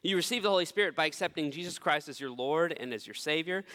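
normal talking voice

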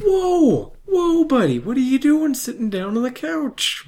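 high, loud, scandalized yell; mock alarmed shout. Host voicing a horrified couch owner, high loud mock alarm. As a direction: stop him like he's ruining your couch.

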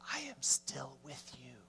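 low, soft reassurance, half whispered; God's gentle whisper. Acted. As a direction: whisper comfort to someone close. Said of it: "when he whispers, he says".

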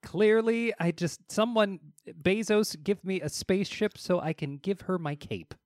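high, hammed-up begging; mock-desperate plea. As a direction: plead as a would-be rescuer. Acted plea for a spaceship.

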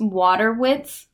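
"Waterwitz", slow and careful, WAH-ter-witz; pronounced Waterwitz. Shown as a demonstration. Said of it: "it's pronounced Waterwitz".

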